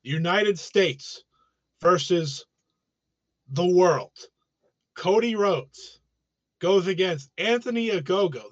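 promoter voice. Acted. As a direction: hype it like a boxing promoter. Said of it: "Here's my promoter voice".

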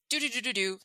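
quick vocalized montage filler, mock busywork; playful busy noise. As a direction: imitate busy searching with light nonsense syllables. Mimics busy computer searching.

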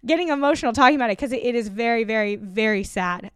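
real emotion breaking in mid-sentence; getting emotional. Real, not acted. Animal rights speaker choked up telling of slaughterhouse trucks, emotional. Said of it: "I'm even getting emotional".

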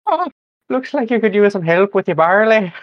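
hammed-up Irish accent. Shown as a demonstration. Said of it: "need to do this Irish accent".

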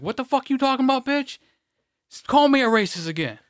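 high, loud pretend telling-off; mock confrontation. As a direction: snap back at her in a hammed-up way. Imagined confronting the coworker.

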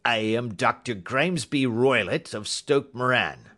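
forceful, emphatic self-announcement; blustering doctor. Acted. Roylott introduces himself to Holmes, blustering. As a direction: announce yourself with heavy weight.

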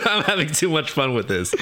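talking through giggles; amused, laugh bubbling into the words. Real, not acted. Cracking up at own game.

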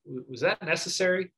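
mild, calm teacher's question. Retold or imitated. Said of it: "just very calmly".

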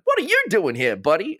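chirpy, overeager announcer; trailer voice. Retold or imitated. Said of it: "a flower dropped out of the sky and was like".

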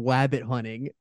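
"wabbit hunting" said with W replacing the R of rabbit; quoted wabbit pronunciation. Retold or imitated. Laughing co-host repeating the commentator's line, "wabbit" with a W. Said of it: "Michael Cole said Damian Priest was going".

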